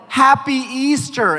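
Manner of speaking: high, slow, drawn-out cheer; excited holiday greeting. Retold or imitated. Evan handing over candy at the door, excited drawn-out greeting. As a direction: imitate an eager well-wisher.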